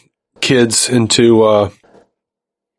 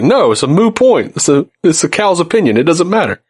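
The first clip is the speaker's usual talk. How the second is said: a lightly voiced Joey, a bit higher; playful imitation of a sitcom character; quoting Joey; 5 semitones higher than usual. Retelling a Friends scene to his co-host, lightly mimicking Joey. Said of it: "He's like".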